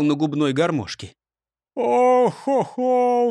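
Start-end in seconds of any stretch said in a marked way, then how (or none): 1.7-3.3 long drawn-out sighing oh-ho-ho; slow sigh. Acted. Hungry robber sighs slowly to his friends. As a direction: groan it out slowly, hungry and weary. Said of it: "вздохнул сидевший на стуле".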